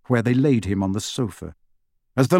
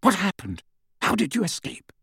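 Lupin, sharp; 7 semitones higher, 4 dB quieter than usual. Acted. Lupin questioning Harry about his escape, sharply. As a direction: press for an answer sharply. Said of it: "said Lupin sharply".

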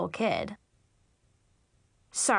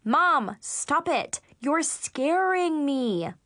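higher, half-held scream of protest; mild scream; 4 semitones higher, much slower than usual. Acted. Daughter imagining screaming at her mom, mildly shrieked. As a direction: cry it out, stretching the last words. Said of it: "My gut reaction was to scream".

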